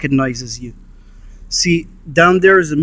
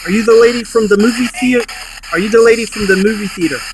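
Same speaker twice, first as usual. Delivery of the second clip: calling out; 4 semitones higher than usual. Real, not acted. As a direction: call out into the dark room. Calling out to the ghost.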